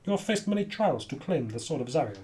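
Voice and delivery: lightly voiced ghost warrior; a hint of a solemn ghost addressing champions; ghostly warrior. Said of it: "What is that voice?".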